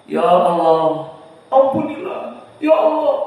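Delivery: hammed-up tearful Ya Allah; mock sobbing prayer. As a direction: imitate the weeping prayer leader. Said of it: "kemudian masuk isak-isak".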